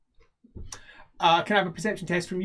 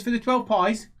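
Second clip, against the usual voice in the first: halfling merchant; 4 semitones higher than usual. Acted. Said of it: "he says".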